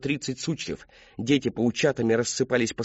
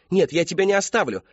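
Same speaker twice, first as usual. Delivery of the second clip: desperate refusal; 6 semitones higher than usual. Acted. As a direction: refuse him fiercely. Refusing to leave him.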